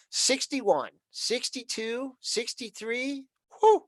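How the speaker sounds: rising pitch, slow auction calling; auctioneer. Pretend. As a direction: call out bids like an auctioneer. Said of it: "I feel like an auctioneer".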